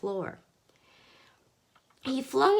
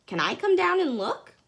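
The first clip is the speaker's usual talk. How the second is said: shouting back; 9 semitones higher, 4 dB louder than usual. Acted. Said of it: "Mister Hoppy shouted back".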